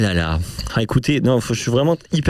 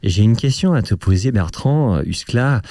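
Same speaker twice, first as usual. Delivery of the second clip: mock deep radio voice. Shown as a demonstration. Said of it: "je prends ma voix grave".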